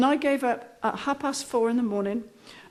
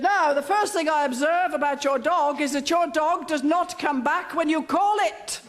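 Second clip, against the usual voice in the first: slightly higher, mildly voiced know-all instructor; lecturing trainer; 4 semitones higher than usual. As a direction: play the trainer stating the obvious, lightly. Trainer lectures about dog.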